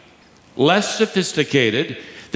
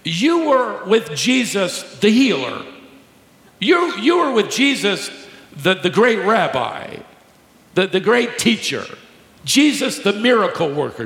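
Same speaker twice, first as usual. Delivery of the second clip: admiring praise; 5 semitones higher than usual. Retold or imitated. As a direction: say it as honoring a great rabbi. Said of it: "notice she doesn't say".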